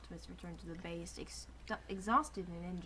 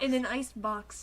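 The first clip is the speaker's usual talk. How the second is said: laughing; 3 semitones higher, 5 dB louder than usual. Real, not acted. Laughing through the joke.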